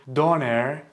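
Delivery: döner said as English doner with a plain o; anglicized doner, o like in go; wrong pronunciation. Shown as a demonstration. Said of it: "it's incorrect".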